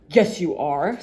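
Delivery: short, curt retort; Uppity snaps at the goblin; snapped. Acted. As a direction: snap it back. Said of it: "snapped Mister Uppity".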